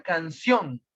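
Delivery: "canción" with the weight on its last syllable, ción; stress on final syllable. Shown as a demonstration. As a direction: lean on the end of "canción". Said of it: "el mayor fuerza de voz está en la última sílaba".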